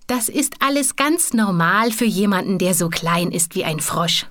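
put-on gently calming a scared girl as Balduin; reassuring. A narrator's reading. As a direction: Balduin comforts Anne: reassuring. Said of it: "beruhigte Balduin sie".

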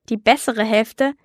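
ungläubige Frage, die bessere Hälfte mit steigendem Ton; entrüstet nachäffen; empört ungläubig. Acted. (Lola wiederholt empört die Worte des Mannes: ungläubig fragend, Ton steigt am Ende)

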